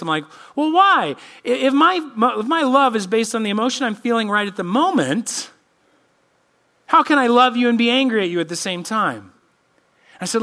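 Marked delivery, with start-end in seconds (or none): 0.6-9.3 higher and louder, teasing challenge; animated dad question. Retold or imitated. Dad quizzing kids at the dinner table, animated. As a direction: pose the riddle with a lift.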